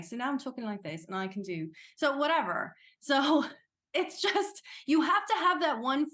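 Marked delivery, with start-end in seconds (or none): 0.0-1.7 demonstrating a British accent. Shown as a demonstration. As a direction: carry on in a put-on British accent. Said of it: "jump into that accent".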